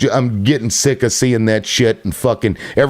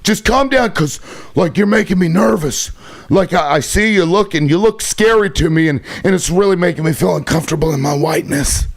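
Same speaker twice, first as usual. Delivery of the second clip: mocking white dude; 3 semitones higher than usual. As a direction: sneer it out like a jittery white guy begging for calm. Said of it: "a white dude come up to you and be like".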